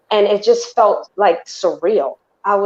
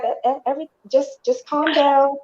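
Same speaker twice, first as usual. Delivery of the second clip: a nurse trying to settle a frightened patient, lightly voiced; nurse calming her; 7 semitones higher than usual.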